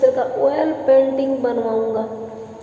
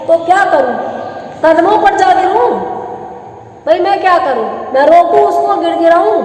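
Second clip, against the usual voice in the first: exasperated retort; 3 semitones higher than usual. Acted. Master retorts to servant urging him to stop his wife, exasperated. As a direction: throw it back as an indignant question.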